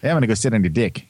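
put-on quick, playful stab at a Kiwi accent; mock New Zealand accent. Host showing off the accent they think is good, mock New Zealand accent. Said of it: "doing a really good New Zealand accent".

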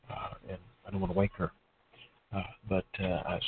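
hushed, quiet voice; low voice. Real, not acted. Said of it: "I'm in a low voice because".

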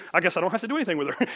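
laughing through a quick mock husband line; laughing mock confession. Preacher mocking forgetful husbands, laughing fast. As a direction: rattle it off fast while laughing.

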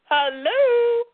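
high, incredulous "hello?". Real, not acted.

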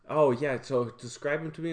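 bright eager question, pitch up; coworker quoted, eager. Retold or imitated. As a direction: play the curious coworker asking for details.

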